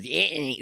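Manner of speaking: Anthony squashed to "Annie", no th; New York pronunciation. Shown as a demonstration. Co-host showing a New York thing, Anthony clipped to "Ann-ee". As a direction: say Anthony with the middle swallowed. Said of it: "that's a New York thing".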